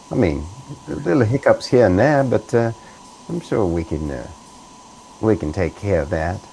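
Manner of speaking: company man slipping into British; smooth it over in a British accent. Acted. Company man reassures crew on their performance, British accent.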